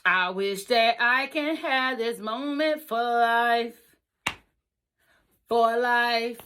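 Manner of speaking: slow, heartfelt wish; emotional, drawn out. Real, not acted. Bride reliving her wedding moment, slow and heartfelt. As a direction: linger on each word. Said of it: "emotional peak".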